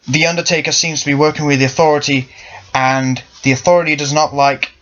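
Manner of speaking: lightly put-on American accent. Explaining Sting's actions as Sting, in a light American accent. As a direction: slip into a mild, unintended American accent. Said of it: "an American accent".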